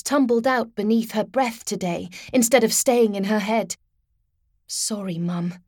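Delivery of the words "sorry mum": soft, sorry murmur; apologetic. A narrator's reading. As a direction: say it softly, apologizing. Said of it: "she thought apologetically".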